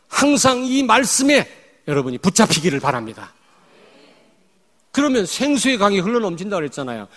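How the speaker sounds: loud, driving pulpit exhortation; fervent preaching. Real, not acted. Pastor exhorting congregation, fervent preaching. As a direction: preach it at full force.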